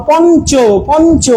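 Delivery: slow, drawn-out "পঞ্চ" with an n sound. Shown as a demonstration. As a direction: say "পঞ্চ" slowly, ঞ heard as a plain ন. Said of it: "নয়ের মতো উচ্চারণ হচ্ছে".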